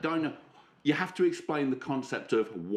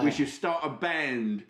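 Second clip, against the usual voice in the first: cheeky put-on British accent; British accent. The speaker greets Romando, put-on British accent. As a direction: play a matey Brit, drawing out names. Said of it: "put me British accent on".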